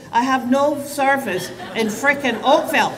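laughing through an exasperated complaint; amused exasperation, laughing. Real, not acted. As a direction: chuckle while grumbling about the phone. Laughing at phone trouble on stage.

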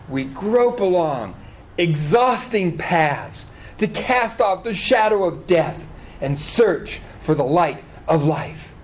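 a touch of sermon grandeur, unhurried; slow, solemn scripture reading; slow poetic reading. Shown as a demonstration. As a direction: read it slowly, savouring each phrase. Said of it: "This is very poetic language".

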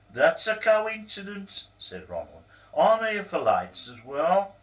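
high, bright eager voice; delighted to find company; eager surprise. Acted.

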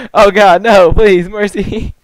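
high laughing begging; laughing plea. Real, not acted. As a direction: beg for mercy laughing.

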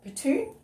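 Poutine? asked with a rise, "oo-TOON"; questioning poutine. Shown as a demonstration. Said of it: "I don't know how you say it".

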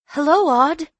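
put-on high, loud young housemaid's hello; high greeting. A narrator's reading. Elsie spotting Audrey at the door, high loud greeting. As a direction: call out high and loud to a friend.

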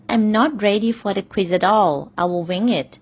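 very slow, careful repeat; slow example repeat. Shown as a demonstration. Teacher repeats the quiz example slowly to learners. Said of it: "หรือ".

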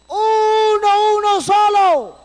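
high call back across the ravine; shouted answer. Retold or imitated. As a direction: shout the answer so they hear.

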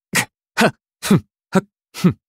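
short, sharp huffs of exertion; quick battle breaths; combat effort grunts. Acted. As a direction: grunt as if striking and taking blows. Combat grunts in game voice lines.

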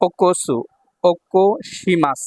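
very slow, drawn-out syllables; slow demonstration. Shown as a demonstration. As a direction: stretch the word out for learners. Teacher sounds out the verb form. (টেনে টেনে ধীরে উচ্চারণ)

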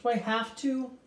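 high, pleading whine; reluctant whine. Acted.

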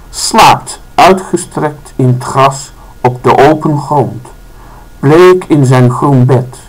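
slow, measured poetry reading with pauses between phrases; poem recitation. Acted. Reads poem's second stanza aloud.

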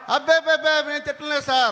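mildly flustered, placating denial. Acted. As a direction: protest innocence to the boss. Hastily denies insulting the boss.

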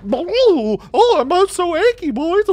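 high, hammed-up feeble moan with a giggle; mocking a sick woman. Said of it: "enough sprightly energy to go".

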